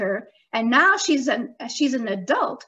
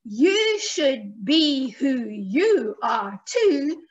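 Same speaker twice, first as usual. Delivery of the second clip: slow, rhythmic recitation with drawn-out key words; children's rhyme; slower than usual. Shown as a demonstration. Teaching children a rhyme about being yourself, slow sing-song recital. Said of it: "One more time, all together".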